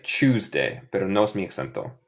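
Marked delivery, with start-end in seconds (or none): 0.0-0.8 Tuesday the British way, starting "chooz"; English accent. Shown as a demonstration. Teacher imitating how people in England say it, British accent. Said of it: "ellos de Inglaterra dicen más como C H".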